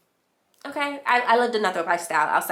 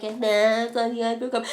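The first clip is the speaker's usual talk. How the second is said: mocking echo reply; 3 semitones higher than usual. Acted reply echoing the shocked question.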